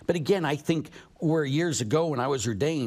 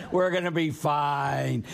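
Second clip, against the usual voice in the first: calm reassurance; slower than usual. Retold or imitated. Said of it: "I said".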